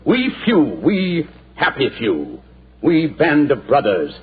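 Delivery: rousing Shakespeare recital. Acted. Holmes recites the Crispin speech for the general, rousing oration. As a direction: declaim it like Henry the Fifth rallying his troops. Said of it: "Then do it for me".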